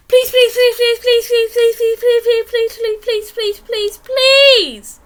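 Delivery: high, loud, breathless pleading; frantic child begging; desperate begging. Acted. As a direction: beg over and over until out of breath. Begging parents for a pet.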